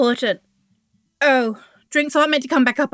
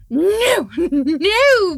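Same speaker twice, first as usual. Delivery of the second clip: high laughing protest; giggling no; 5 semitones higher, 4 dB louder than usual. Acted. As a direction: squeal out a laughing no. Giggly refusal.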